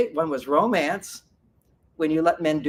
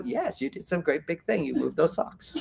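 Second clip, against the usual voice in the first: mock praise; 6 dB quieter than usual. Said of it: "you're very wise".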